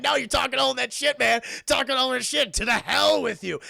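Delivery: acted villain dismissing a plea; mock angry rebuke. Krampus rejects Max's plea angrily.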